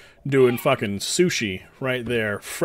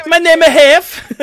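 put-on high, loud, slow Hispanic accent; proudly announcing his name in accent; 13 dB louder than usual. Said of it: "With the accent".

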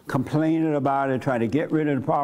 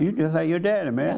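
offhand demo remark, a little higher; casual remark; 4 semitones higher than usual. Shown as a demonstration. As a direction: toss it out man to man, casually. Models a remark to a husband.

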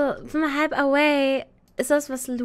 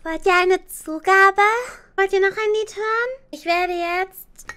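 hype announcer; 7 semitones higher, 7 dB louder than usual. Acted. Concert host to chat.

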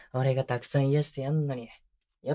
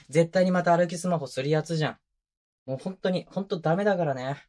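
louder, higher scolding of a careless partner; exasperated scolding; 4 semitones higher, 5 dB louder than usual. Acted. Boyfriend scolding his partner for walking while on the phone, exasperated. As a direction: tell them off, half fond and half fed up.

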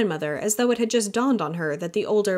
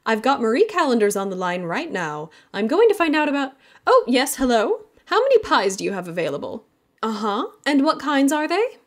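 high, louder, chirpy phone voice; the mother ordering pies, bright and busy; higher, louder mom voice; 6 semitones higher, 5 dB louder than usual. Acted.

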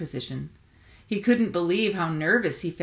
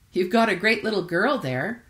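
lilting, bouncy sing-song voice; 4 semitones higher, 5 dB louder than usual. A narrator's reading. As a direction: let the words swing up and down. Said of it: "her sing-song voice continued".

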